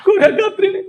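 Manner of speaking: very high put-on cartoon voice; playful, extremely high character voice; comic squeaky voice. Shown as a demonstration. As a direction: rattle it off in a tiny high squeak. Comic high voice tongue-twister demo.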